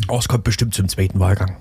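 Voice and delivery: verschwörerisch geflüstert; flüsternd. Acted. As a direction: leise wie ein Geheimnis tuscheln. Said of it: "warum flüsterst du?". (flüsternd, als dürfe es keiner hören)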